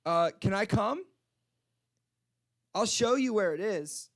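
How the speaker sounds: put-on slightly drunk and eager to lead the way; drunk lady. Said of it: "like, really drunk".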